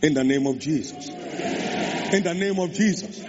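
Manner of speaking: building prayer. Real, not acted. Repeated rising invocation.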